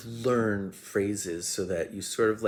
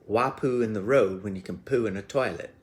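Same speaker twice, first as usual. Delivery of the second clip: lightly Southern, louder blurt; Southern accent; 5 dB louder than usual. Retold or imitated. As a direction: blurt it out with a hint of Southern twang. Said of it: "I had found my Southern voice".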